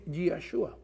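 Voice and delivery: Yahshua dicho a la hebrea, "yah-SHU-a" con sh suave; pronunciación hebrea. Shown as a demonstration. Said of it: "la pronunciación en hebreo es". (Yahshua con pronunciación hebrea)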